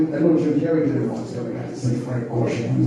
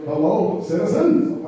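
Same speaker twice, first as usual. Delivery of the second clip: Adam West voice; 4 semitones higher, slower than usual. Retold or imitated. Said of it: "he sounds just the same".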